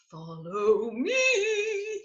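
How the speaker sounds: high, very slow beckon; character voice. Acted. Denzel's friend leading them in, slow and high. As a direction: draw it out high.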